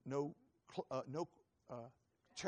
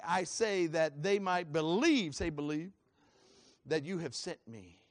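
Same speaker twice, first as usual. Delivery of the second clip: emphatic preacher's reading, building louder; scripture reading; 6 dB louder than usual. Acted. Preacher reads the raising of Lazarus to the congregation, emphatic declamation. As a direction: declaim the verse with measured force.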